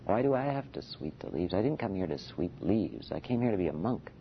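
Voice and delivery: a hint of petulant whine; whining mind. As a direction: lightly mimic a monk grumbling about sweeping leaves. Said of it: "the whining mind".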